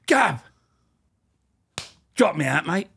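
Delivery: high, pleading con begging a warder; guard mimics a prisoner nagging him on the wing; whiny prisoner. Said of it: "I'll do a good one if you want me to do it".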